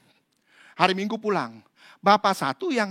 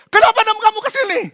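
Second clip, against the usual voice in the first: quick questioning exorcist; 13 dB louder, much faster than usual. Retold or imitated.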